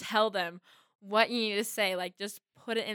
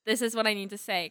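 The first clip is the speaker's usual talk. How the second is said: firm demand; 6 dB louder than usual. Retold or imitated. Acts out telling parent off.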